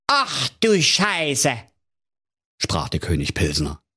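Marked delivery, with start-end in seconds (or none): 0.1-1.6 high, very slow dismay; king hearing the dragon's name, appalled. Acted. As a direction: drag out the curse in shock. King shocked.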